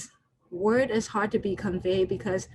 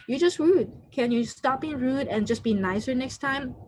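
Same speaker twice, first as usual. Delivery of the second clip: irritated snap; 4 semitones higher than usual. Retold or imitated. Speaker scolding someone for rudeness, mock irritated. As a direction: snap at them for being rude. Acted snap at rude person.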